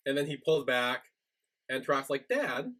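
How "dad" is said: put-on high, whiny drunk begging; drunk pleading. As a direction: beg like a drunk kid. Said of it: "Turok's still in his drunken state".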